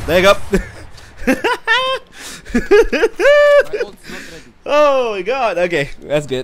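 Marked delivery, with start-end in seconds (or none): 0.4-4.4 loud high laugh. Real, not acted. Laughing at teammate's play.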